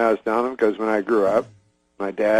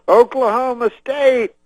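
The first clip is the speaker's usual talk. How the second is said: much higher, louder rally shout; Cosby revving up the stadium crowd with a high shout; Cosby crowd call; 12 semitones higher, 5 dB louder, slower than usual. Retold or imitated. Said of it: "He goes".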